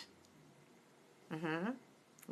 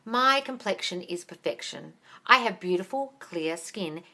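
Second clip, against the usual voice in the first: affirmation; 3 dB quieter, slower than usual. Shown as a demonstration. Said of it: "Start affirming those things, darling".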